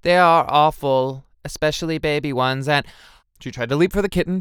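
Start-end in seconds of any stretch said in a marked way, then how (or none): 0.0-2.9 loud, slow, effortful insistence; strained denial. A narrator's reading. Lulu about to leap for the kitten, strained denial. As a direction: insist slowly while barely holding back. Lulu shaking, pretending to hate cats.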